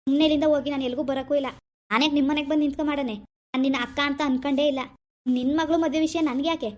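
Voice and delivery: stern, scornful rejection; angry refusal. Acted. Brother refusing his sister's wedding invitation, angry. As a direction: disown them and order them out. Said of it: "ಇವ್ನ್ ನೋಡಿದ್ರೆ ಹಿಂಗ್ ಕೋಪ ಮಾಡ್ಕೊತಾನಲ್ಲ".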